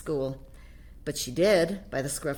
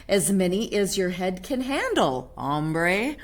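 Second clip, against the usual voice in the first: put-on Spanish accent. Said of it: "using his very best Spanish accent".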